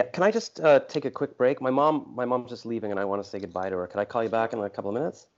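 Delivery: quick, high, rushed apology; hurried break request. Real, not acted. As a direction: rush to get off the call. Asks to break off, mom leaving.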